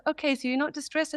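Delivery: put-on a small boy checking, half relieved; young son's voice. Voicing her sons again.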